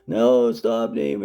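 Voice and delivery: lightly hammed-up whine of protest; mock whining. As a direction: imitate people crying out in protest. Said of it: "they're all crying and whining".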